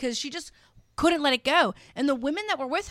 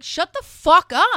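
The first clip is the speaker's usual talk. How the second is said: mock angry retort; 6 semitones higher, 8 dB louder, slower than usual. Her imagined retort.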